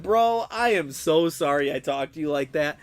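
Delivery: emphatic apology, leaning on "so sorry"; retold apology. Streamer retells apologizing to his friend, emphatic apology. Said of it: "I had to apologize to him".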